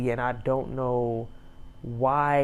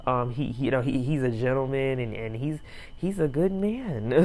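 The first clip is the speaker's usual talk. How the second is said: mock stammer with false starts; imitated stumbling. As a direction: stumble and repeat words, imitating her hesitation. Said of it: "she was stumbling and stuttering".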